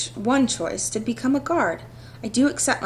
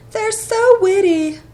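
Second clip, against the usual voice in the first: loud, slow, higher mock gush over the line; 9 semitones higher, 8 dB louder, slower than usual. Player mocks the game's dialogue with loud, slow mock gushing. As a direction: pretend to swoon at the wit, way over the top.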